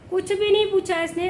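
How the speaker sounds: high and loud on नहीं, stressing नहीं. Real, not acted. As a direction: hit नहीं hard with indignation. Complaint repeated, second time louder.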